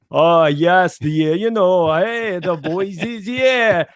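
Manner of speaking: put-on English manager putting on a Dutch accent; slow, stretched-out imitation Dutch accent; hammed-up Dutch-accented English; mock Dutch accent. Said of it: "he started to, you know, speak".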